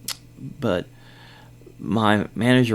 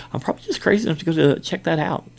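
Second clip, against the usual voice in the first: higher, louder, quick retold boast; amused bravado; 9 semitones higher, 5 dB louder, faster than usual. Guard telling coworker he'll check, amused bravado. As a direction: repeat it with amused, rushed bravado. Repeats his quote, amused at himself.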